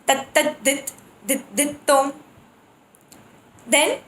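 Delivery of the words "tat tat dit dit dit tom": rhythmic grouped syllables; bol groups. Shown as a demonstration. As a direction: recite the groups in time. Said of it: "one syllable repeated twice and then adding another".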